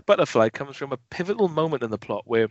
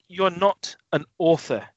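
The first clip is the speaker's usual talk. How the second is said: slow disbelief; 4 semitones higher, slower than usual. Retold or imitated. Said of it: "You think".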